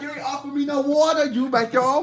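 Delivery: loud teasing clapback; loud laughing retort. Real, not acted. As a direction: throw it back at her, laughing hard. Playful drink quarrel.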